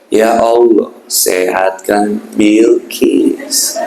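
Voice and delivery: lifeless prayer with no feeling behind it; a deliberately flat, unfeeling plea. Shown as a demonstration. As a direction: rattle it off with no remorse. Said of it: "Kok flat itu?".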